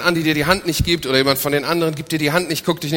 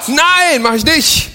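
much higher, louder insistent no; mock indignant retort; indignant denial; 10 semitones higher, 3 dB louder, much slower than usual. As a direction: protest hard that you are not. Interpreter acts the indignant denial.

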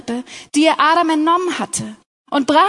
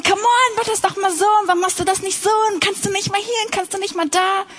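mock nagging, pitched higher at the start; 4 semitones higher, faster than usual. Wife nagging her husband, mock nagging tone. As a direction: playfully imitate a nagging wife. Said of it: "wir nörgeln rum und sagen".

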